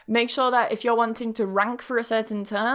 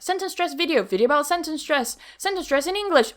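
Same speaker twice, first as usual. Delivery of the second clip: higher-pitched, quick-fire list of search terms; mock keyword-stuffing; 6 semitones higher, faster than usual. Shown as a demonstration. Teacher mocking titles crammed with keywords, lightly hammed-up listing. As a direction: reel off a silly over-stuffed title.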